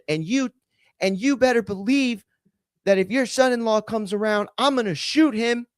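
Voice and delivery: high-pitched imitation of a threat; mock threatening. Landlord threatening the son-in-law to his mother-in-law, mimicked high-pitched threat.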